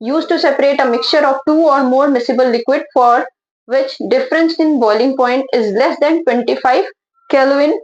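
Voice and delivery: slow, deliberate read-out of the definition; slow dictation. Shown as a demonstration. Teacher dictating a definition to her students, slow and deliberate. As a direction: read it slowly so the class can copy it down.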